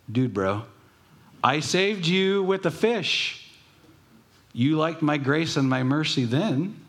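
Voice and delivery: a hammed-up God scolding like a buddy; mock exasperated God. Preacher plays God scolding Jonah, high incredulous. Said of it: "if I was God, I would say".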